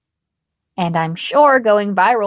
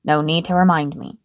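spat out; 5 semitones lower than usual. Acted. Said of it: "he spat out".

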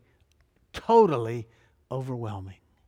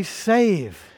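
loud, high, falling cry; emphatic, abrupt cry; 5 semitones higher, 7 dB louder than usual. Acted. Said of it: "emphatically, abruptly".

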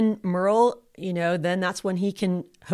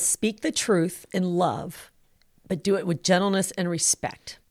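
slow, measured reading of scripture; quoting the Bible slowly to the listener; scripture quote. Shown as a demonstration. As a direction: lay the verse out slowly and deliberately. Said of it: "The Bible says".

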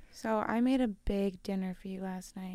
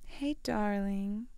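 mock seductive stepmom; 5 dB quieter than usual. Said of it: "a stepson thing".

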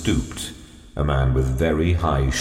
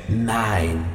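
goblin voice; 4 semitones higher than usual. A narrator's reading. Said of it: "in a goblin way".

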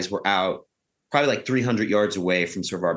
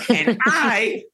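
laughing; 11 semitones higher than usual. Real, not acted. Laughing while retelling.

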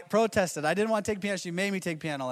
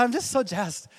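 higher, louder gushing wife voice; impression of his wife; 6 semitones higher, 4 dB louder than usual. Husband mimicking his wife gushing about something. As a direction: gush it like an excited girlfriend. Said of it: "my impression of her".

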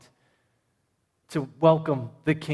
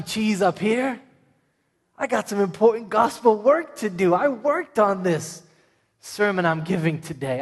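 louder, higher, dripping with sarcasm; sarcastic mock praise; 3 semitones higher, 3 dB louder than usual. Preacher mocking what Jesus did not say, loud sarcastic praise. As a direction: play a smug preacher too busy for kids, voice lifted.

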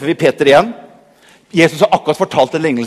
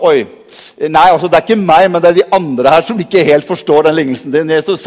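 defensive Peter; 3 dB louder than usual. Retold or imitated. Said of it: "Peter var litt sånn".

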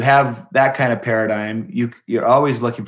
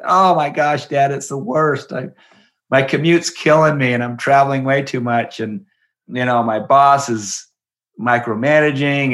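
complaining; 4 semitones higher, 3 dB louder than usual. Retold or imitated. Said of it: "just complained".

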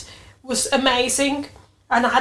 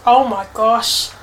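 louder, slower burst of joy; excited exclaim; 7 dB louder than usual. Retold or imitated. Realising she passed, louder excited exclaim. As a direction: let the news hit you and call it out. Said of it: "I said".

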